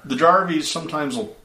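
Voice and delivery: high, folksy local voice; lightly voiced country man; farmer voice.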